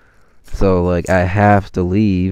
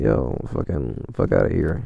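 gruff Jesus; 6 semitones lower, 6 dB quieter than usual. Retold or imitated. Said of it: "Jesus be like".

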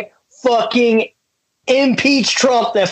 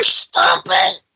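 laughing plea; 13 semitones higher than usual. Real, not acted. Pleading through a laughing fit.

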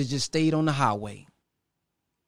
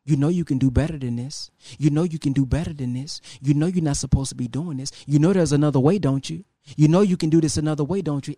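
inner voice; 4 semitones lower than usual. Retold or imitated. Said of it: "a voice that you hearing saying".

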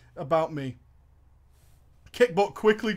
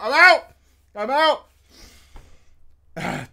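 loud playful shout; mock shout; 6 semitones higher, 8 dB louder than usual. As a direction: shout it out as a joke. Joking exit shout.

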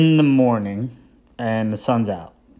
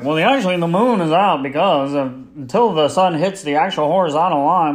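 mock know-it-all; 3 semitones higher, faster than usual. Mocking know-it-all listener.

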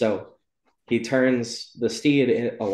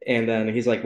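ordinary talk

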